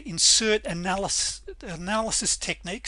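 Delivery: hoarse, strained, voice giving out; worn-out hoarse voice after a long day. Real, not acted. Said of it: "Sorry, I'm losing my voice".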